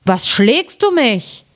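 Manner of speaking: langsame, gedehnte Riesenstimme, schlaftrunken; verschlafener Riese. A narrator's reading. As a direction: wie ein gerade geweckter Riese, gedehnt. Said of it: "stieß seinen Gefährten an und sprach". (schläfriger Riese, langsam)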